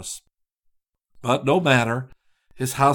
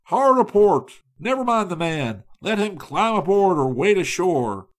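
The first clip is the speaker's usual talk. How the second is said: loud, raised commands; captain's shout; 7 semitones higher, 6 dB louder than usual. A narrator's reading. Captain shouts orders as a man falls overboard, loud. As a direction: yell the orders over the gale. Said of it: "The captain shouted".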